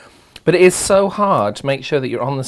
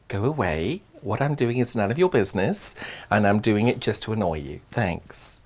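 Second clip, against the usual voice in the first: grumpy husband voice; 5 semitones lower, 8 dB quieter than usual. Retold or imitated.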